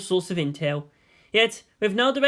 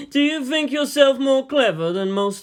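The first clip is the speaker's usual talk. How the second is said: higher, louder amused voice; Yang's voice; 8 semitones higher, 4 dB louder than usual. Acted. Yang asking Shinji after laughing, higher and amused. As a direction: ask with amused curiosity.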